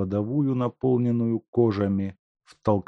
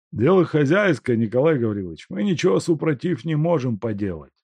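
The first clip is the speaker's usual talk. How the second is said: sympathetic; 6 semitones higher, 4 dB louder than usual. Acted. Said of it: "сочувственно говорили рабочие".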